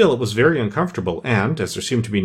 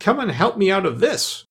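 high-pitched, cross order; mildly peevish demand, pitched up; angry; 8 semitones higher than usual. A narrator's reading. The Rabbit demanding Pat's help, cross. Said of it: "said the rabbit angrily".

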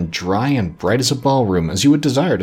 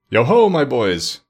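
jovial Fezziwig; slower than usual. A narrator's reading.

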